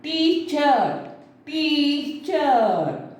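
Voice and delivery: "Teacher, teacher" with TEA stressed and CHER falling; stress on first syllable. Shown as a demonstration. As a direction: lean on the TEA of "teacher", stretched on the repeat. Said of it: "it is generally stressed on T E A".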